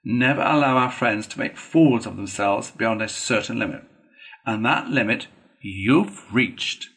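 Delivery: firm, measured reproach; deliberate, weighty telling-off; stern Badger lecturing. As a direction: lay down the law as an exasperated friend.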